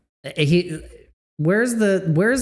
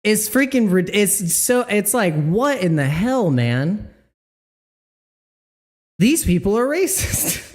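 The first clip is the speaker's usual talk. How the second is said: high mocking dude voice, pitched well up; high put-on caller voice; 6 semitones higher than usual. Streamer mocking an outraged caller, high put-on voice. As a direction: squeak it out like an outraged good ol' boy.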